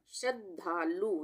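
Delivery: श्रद्धालु said slowly so the half द before ध is heard; teacher sounding out श्रद्धालु; slow careful reading. Shown as a demonstration. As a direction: model the word for the class. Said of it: "हम कैसे बोल रहे हैं".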